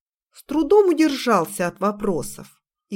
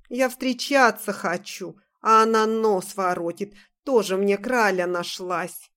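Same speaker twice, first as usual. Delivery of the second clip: put-on belligerent drunk. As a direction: whine it like a sloshed suitor. Drunk keeps complaining.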